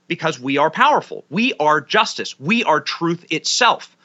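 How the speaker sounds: mock self-important proclamation. Commentator voicing the machine proclaiming its power, mock grandiose.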